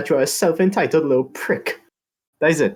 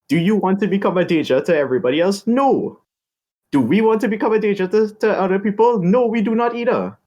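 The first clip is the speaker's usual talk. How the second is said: rising emphatic questions, higher; emphatic rhetorical; 6 semitones higher than usual. Acted. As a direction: drive each question home, higher.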